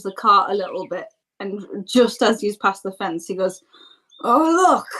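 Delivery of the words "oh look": high-pitched character exclamation; lightly acted 'oh, look'; feigned discovery. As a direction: point it out in a higher voice. Cart driver announces the arrival.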